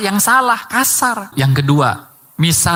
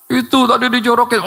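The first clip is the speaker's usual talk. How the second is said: put-on a touch higher child's complaint; light child voice telling on a pusher; imitating a child; 4 semitones higher than usual. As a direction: whine that someone pushed him. Child answers parent.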